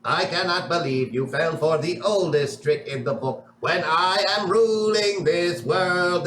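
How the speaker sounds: slow, droning robot villain; robot villain monologue. Acted. Mister Roboto gloating to captured heroes, slow robotic drone. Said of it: "Mister Roboto is still mid-monologue".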